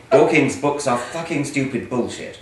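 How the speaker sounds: loud, mock-indignant reading of hate mail aloud. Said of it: "read some of your hate mail".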